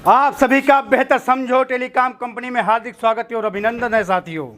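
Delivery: lightly oratorical mock-welcome from a gang boss; gang boss's speech. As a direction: address the captives like a formal welcome speech, pausing between phrases. Boss addresses the captives. (गिरोह के सरगना का स्वागत भाषण)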